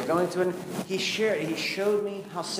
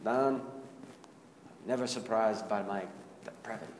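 soft, low attempt at a Scottish accent; 6 semitones lower, 8 dB quieter than usual. Professor answering a guilt-ridden young pastor, soft Scottish accent. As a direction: lightly imitate a Scottish professor, trailing off softly. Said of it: "I'm gonna try to do it in a Scottish accent".

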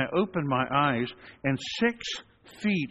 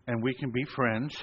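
mock calm, gently; calm and soothing. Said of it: "I talked very calmly".

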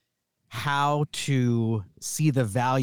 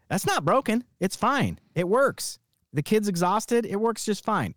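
dismissive "it's fine"; 8 semitones higher than usual. Retold or imitated. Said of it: "answer A is".

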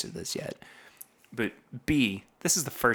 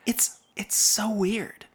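whisper; 10 semitones higher, slower than usual. Real, not acted. Puzzled aside while tasting.

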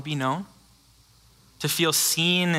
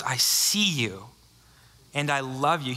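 tender. Acted. Jesus's words to Mary.

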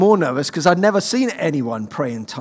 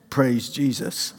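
softer, slow, self-conscious praise; quiet; 3 semitones lower, 6 dB quieter, slower than usual. Retold or imitated. The nervous student trying again, still quietly. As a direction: murmur it as if embarrassed. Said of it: "No, son, praise Jesus, louder".

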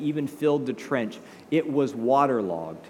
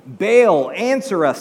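loud, higher call on the name; shouting; 5 semitones higher, 9 dB louder, slower than usual. Acted. Prophets yelling out to Baal for an answer, shouting. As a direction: call out loudly to your god. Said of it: "they shouted".

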